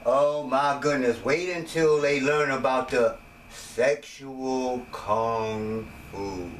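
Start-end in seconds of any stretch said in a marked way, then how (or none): 3.8-6.5 dramatic reveal. Real, not acted.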